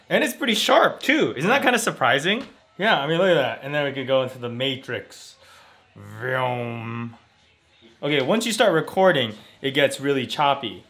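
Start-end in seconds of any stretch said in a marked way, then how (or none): 5.9-7.2 low, soft drawn-out vroom; imitated whoosh. Showing the tiny monitor going into the Matrix, imitated whoosh. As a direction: hum a sliding machine noise.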